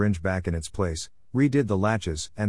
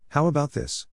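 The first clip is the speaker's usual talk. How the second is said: higher, mildly raised voice; said loudly; 7 semitones higher than usual. A narrator's reading. Harry proposes the contest, mildly loud. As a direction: pitch it up as an announcement, little extra volume. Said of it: "Harry said loudly".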